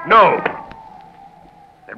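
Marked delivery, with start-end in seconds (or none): 0.1-0.4 startled cry. Acted. Startled by a shout outside.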